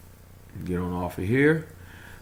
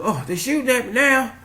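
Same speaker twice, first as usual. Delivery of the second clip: high, loud imitation of panic; mock alarmed cry; 7 dB louder than usual. Retelling the pilot being shot at, high mock alarm. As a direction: cry out like a pilot under fire. Acts out pilot under fire.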